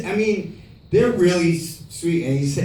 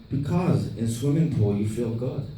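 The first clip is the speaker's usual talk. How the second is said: lightly voiced foreign filmmaker; a light accented imitation; Tommy; 2 semitones lower than usual. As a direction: mimic his simple explanation, deadpan. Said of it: "He's like".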